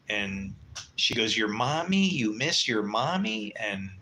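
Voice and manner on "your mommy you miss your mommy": mocking. Girlfriend mocking him for missing his mom, mock baby talk. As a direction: sneer it like a taunt. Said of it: "as soon as she started mocking me".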